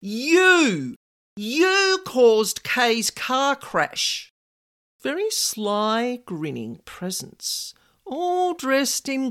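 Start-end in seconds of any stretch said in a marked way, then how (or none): 0.0-4.3 firm, slowed-down accusation, not much louder; pointing the blame, unashamed. Retold or imitated. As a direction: accuse him outright, dragging the words. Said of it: "she said loudly and unashamedly".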